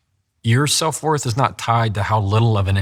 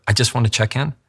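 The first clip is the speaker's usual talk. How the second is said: slightly tentative check-in; hesitant; 3 semitones higher than usual. Shown as a demonstration. Someone checking in by message, mildly hesitant. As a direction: sound a little unsure about bothering them. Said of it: "It sounds like you're hesitant".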